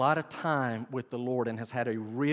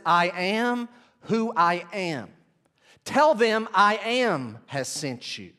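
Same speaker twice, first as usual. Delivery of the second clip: voice of God; 5 semitones higher, 5 dB louder, slower than usual. Acted. God answers Moses.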